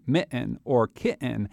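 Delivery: MITTEN and KITTEN with the T dropped, "mi'en", "ki'en"; Connecticut glottal stop. Shown as a demonstration. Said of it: "Or, or they'll say".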